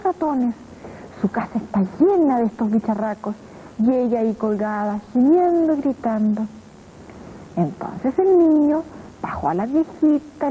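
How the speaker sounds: put-on lively read-aloud for children, swooping pitch; storytelling voice. A narrator's reading. Narrator reading a children's tale to kids, lively storytelling. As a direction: tell it like a bedtime tale to little ones.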